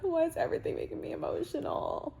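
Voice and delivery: high, teary sobbing laugh; real happy tears breaking through; crying while laughing. Real, not acted. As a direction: cry and laugh at once. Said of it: "I can't stop crying".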